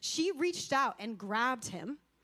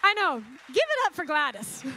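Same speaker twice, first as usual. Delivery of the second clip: much louder, calling the room to cheer; rallying call; 6 dB louder than usual. Real, not acted. Preacher urging the congregation to applaud Gladys, loud call.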